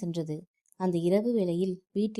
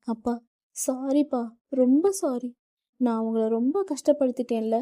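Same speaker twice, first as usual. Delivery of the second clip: higher, louder tearful apology; crying; 5 semitones higher, 4 dB louder than usual. A narrator's reading. Daughter hugging her father, crying her apology. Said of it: "அழுது கொண்டே கூற".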